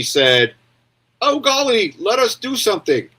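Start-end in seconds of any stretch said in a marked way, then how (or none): 1.2-3.1 high, prissy mock British voice, pitched up; mock British accent. Mocking the English finally acting, in a high mock British accent. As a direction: lampoon the English with a posh British put-on. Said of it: "I don't have British, British accent".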